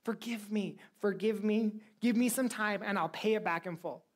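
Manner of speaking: high, desperate pleading voice; begging servant. Acted. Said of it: "he begged him and he said".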